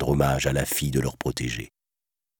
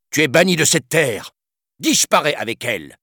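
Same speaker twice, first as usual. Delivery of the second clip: much higher, commanding banishment; roaring king; 11 semitones higher than usual. A narrator's reading. New king banishing the villain, roaring. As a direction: roar out the sentence. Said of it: "rugit le nouveau souverain".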